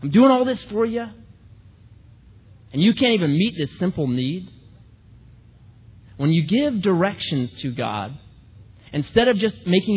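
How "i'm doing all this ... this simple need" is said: high, indignant complaint to God; mock-outraged demand, pitched up; angry prayer. Preacher retelling his pen prayer, high and indignant. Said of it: "I became angry".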